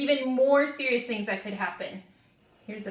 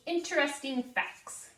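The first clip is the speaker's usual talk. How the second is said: call and response; 4 semitones higher than usual. Shown as a demonstration. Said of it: "Say that with me".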